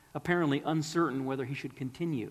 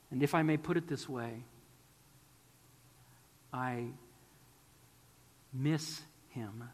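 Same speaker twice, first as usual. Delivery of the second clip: voice cracking; 2 semitones lower than usual. Retold or imitated. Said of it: "His voice cracking".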